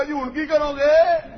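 high, slow mock of a confused man; mock puzzled reply. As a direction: ape the opponent's dumb question. Mocking opponent's puzzled reply.

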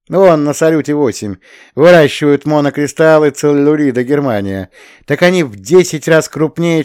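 high, loud eager explaining; excited geologist. A narrator's reading. Shura explains crystal growth to Belsky, high and eager. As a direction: rattle on like a thrilled specialist.

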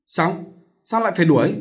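high-pitched startled question; shocked question. A narrator's reading. Sister hearing brother was suspended from school, shocked question. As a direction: react in surprise, pitch leaping up. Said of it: "Cô Lễ trợn mắt".

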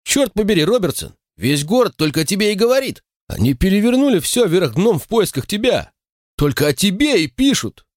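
high, rushing excited man's voice; excited protest. A narrator's reading. Nicol protesting to Walter about the town's search, excitedly high. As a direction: blurt it out in high disbelief. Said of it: "запротестовал Никол".

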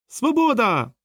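a high, bright yelp of freedom; joyful cry. A narrator's reading. Poodle cries out at being free, yelping high. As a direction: shout it as you fly off.

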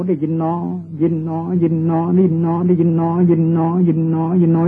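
repetitive, evenly pitched noting chant; meditation noting. Shown as a demonstration. Monk showing listeners how to note hearing, droning repetition. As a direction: repeat it steadily, drawing out each หนอ. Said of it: "โยมลองกำหนดที่หู".

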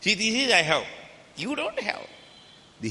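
high, gloating brag with a long drawn-out finish; smug, flaunting voice; boastful show-off. Pretend. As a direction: rub it in that only you have it. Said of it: "This is మదం".

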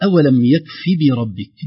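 slow يكف بربك with each short vowel sounded; successive vowels. Shown as a demonstration. Teacher introducing the verse, successive vowels. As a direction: recite يكف بربك keeping "bi" distinct. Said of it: "نفس نظرية، آه، تتابع الحركات".

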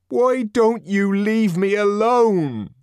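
high, loud, slow angry plea; angry but pleading to be left alone; plaintive anger. A narrator's reading. Savage begging the crowd to leave, plaintive angry cry. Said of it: "an almost plaintive note in his anger".

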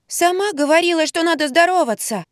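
put-on high childish retort; child's protest. A narrator's reading. A lightly voiced boy answers his mother back. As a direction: talk back like a small boy.

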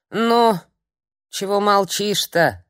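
put-on high, loud cranky old hag; cranky old woman scolding; old crone's scolding. A narrator's reading. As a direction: snap at the guest like a grumpy old crone. Crone needles the witch.

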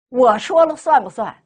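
nephew's demand said loud and hard; loud question. Retold or imitated. Nephew confronting his aunt, loud demanding question. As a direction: push it out loud as a challenge. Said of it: "能说这么大声的话".

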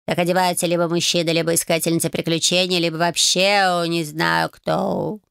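a disdainful cat lost for words; sniffy cat. Acted. Cat judges her outfit.

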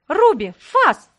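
a loud, high, slow shriek of a command. Acted. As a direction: scream the order at the demon dog, stretching it out. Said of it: "взвизгнула я".

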